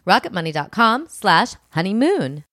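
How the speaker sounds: upbeat sponsor pitch read to listeners. Acted. Host pitching a finance app to listeners, bright ad read. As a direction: sell the app like a podcast host.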